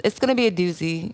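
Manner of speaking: put-on Italian voice; lightly faked Italian accent; Italy voice. Shown as a demonstration. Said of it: "I'm in my Italy voice".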